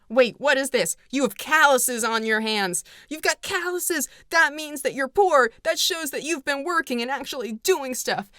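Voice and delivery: mock outrage at her rough hands; mock Clark Gable. Clark Gable to Scarlett, lightly voiced mock outrage. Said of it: "he's like".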